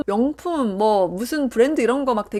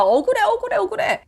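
high-pitched, hammed-up protest; mock aggrieved wailing; 10 semitones higher than usual. Housewife protesting unfair treatment, mock aggrieved cry. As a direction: whine it high, like playing the wronged one. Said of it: "그렇게 소리질러 봤자".

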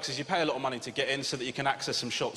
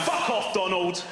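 raised, irritated shout at a cartoon mascot; mock angry shout; 5 semitones higher, 3 dB louder than usual. Fed-up dad snapping at a Disney mascot, mock angry.

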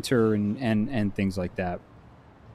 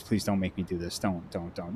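softer, begging, fading down; mock pleading; 4 semitones lower, 7 dB quieter than usual. Streamer begging not to solve the riddle, mock pleading fade. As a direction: plead under your breath to be stopped. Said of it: "I was like".

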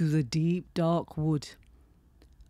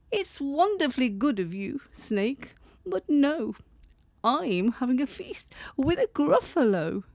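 high mouse voice; 6 semitones higher than usual. Acted.

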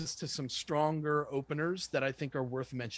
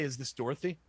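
"Dorothy" falls rather than lifts; downward inflection; 3 semitones lower, 3 dB quieter than usual. Shown as a demonstration. Caller checking it is the gatekeeper, downward inflection. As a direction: ask it as a statement, "Dorothy" going down. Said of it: "Downward inflection".

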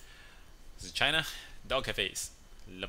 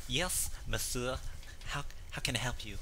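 French waiter; 4 dB quieter than usual. Retold or imitated. Waiter answering the husband, mock French politeness. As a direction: glide in politely like a fancy waiter. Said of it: "And the waiter comes over".

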